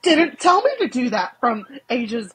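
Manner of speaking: exasperated daughter, played for laughs; mock retort. Acted retort to her mother.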